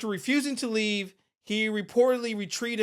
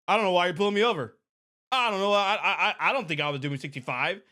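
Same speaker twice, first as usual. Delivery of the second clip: rambling driver; much faster than usual. Retold or imitated. Imitating a driver pulled over.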